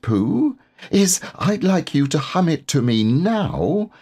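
eager little squeaky plan; tiny piglet, shy and hopeful. Acted.

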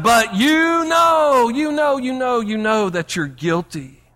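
a hint of a taunting prosecutor; mock accuser's taunt. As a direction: needle them with the accusation. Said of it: "he's still saying".

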